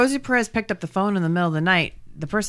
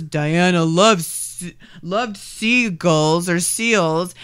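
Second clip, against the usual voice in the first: mopey widower; 2 semitones lower, much slower than usual. Retold or imitated. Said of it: "he goes".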